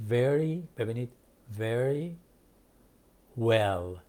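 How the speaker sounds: "Very" with teeth on lip for V, "well" with rounded lips; slow teaching split of "Very" and "well"; careful V and W. Shown as a demonstration.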